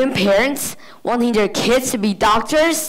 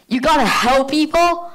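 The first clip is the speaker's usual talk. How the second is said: high, disbelieving question; mock disbelief, as if appalled by the idea; incredulous; 4 semitones higher than usual. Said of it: "they can't even believe it".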